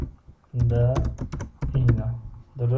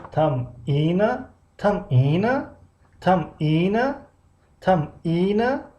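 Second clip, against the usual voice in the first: slow, higher rising "тамина"; rising drill; 4 semitones higher, slower than usual. Shown as a demonstration. Teacher repeating a word for students, rising. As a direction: lift each "тамина" upward like a question. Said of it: "teacher drills word".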